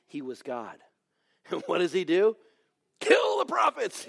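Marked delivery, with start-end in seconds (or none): 3.0-4.1 higher half-laughing shout; exclaimed punchline. Retold or imitated. Preacher laughing as he delivers Elijah's verdict, shouting. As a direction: blurt it out for effect.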